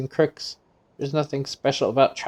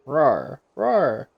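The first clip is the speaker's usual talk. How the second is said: two short beast roars rising; little saurian roaring; creature roars; 3 dB louder than usual. Acted. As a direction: roar back like a small dinosaur. Saurian replying.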